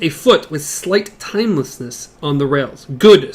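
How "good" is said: louder, clipped machine voice; mechanical voice. A narrator's reading. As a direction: say it like a talking machine. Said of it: "said a faint mechanical voice".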